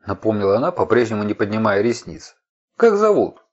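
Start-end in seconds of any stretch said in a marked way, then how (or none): 2.8-3.4 sharp question. Acted. Questioning a frightened stranger.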